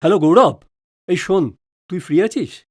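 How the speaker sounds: loud phone hello; loud phone greeting. Acted. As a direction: call out the name cheerfully. Calling friend on phone.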